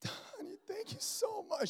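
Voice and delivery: soft breathy whisper, touched and grateful; wife's tearful whisper. Retold or imitated. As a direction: whisper it like a moved wife. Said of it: "She was like".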